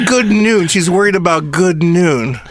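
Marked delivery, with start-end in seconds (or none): 0.1-0.7 Jimmy Stewart voice. Retold or imitated. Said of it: "That sounds like Jimmy Stewart".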